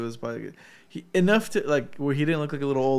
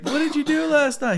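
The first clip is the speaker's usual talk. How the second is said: high mock guy voice; 12 semitones higher, 4 dB louder than usual. Imitating guy in video.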